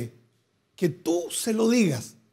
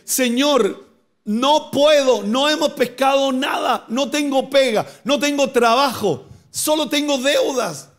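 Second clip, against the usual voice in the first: high, earnest plea to the Lord; pleading prayer; 6 semitones higher, slower than usual. Retold or imitated. A believer confessing failure to God, high pleading. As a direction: cry out your need to God.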